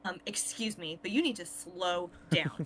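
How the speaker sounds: mildly indignant retold complaint, drawing out the key words; retold annoyed customer. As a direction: imitate an irritated caller telling someone off. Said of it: "this lady got so mad".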